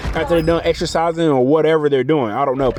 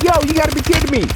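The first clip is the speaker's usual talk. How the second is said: retold disbelief; 11 semitones higher, faster than usual. Arrested, retells his reaction.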